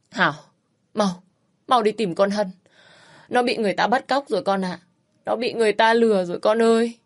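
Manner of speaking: a touch of crying in a pleading mother's voice; mother begging her daughter to find the missing girl, tearful. Acted. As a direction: plead with the daughter through tears, lightly voiced. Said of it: "Mẹ khóc, những tiếng khóc xé lòng".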